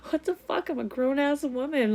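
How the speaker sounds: high-pitched, exasperated self-reproach. Retold or imitated. Grown woman scolding herself for crying at work, high exasperated outburst. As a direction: push it high and loud in disbelief at yourself.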